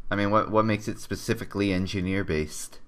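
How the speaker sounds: normal talking voice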